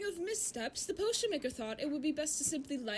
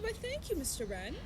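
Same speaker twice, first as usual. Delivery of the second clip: lightly voiced courteous potion maker; polite potion maker. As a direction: thank him like a gracious shopkeeper. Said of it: "She said".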